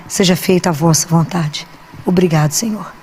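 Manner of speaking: oração baixa, lenta e mansa; oração suave. Pretend. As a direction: reze entregando tudo, devagar. Oração de entrega a Deus. (oração mansa de quem se entrega a Deus)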